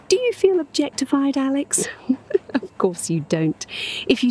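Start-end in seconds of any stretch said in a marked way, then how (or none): 1.9-2.5 short, light teasing laugh; teasing chuckle. Acted. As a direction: chuckle at your own teasing question. Teasing Alex about being objectified.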